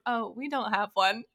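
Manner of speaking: imitating a friend's straight-faced prank; deadpan, serious. Friend re-enacting the restroom prank answer, mock serious. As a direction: play it straight, as if truly serious. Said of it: "It sounded so serious".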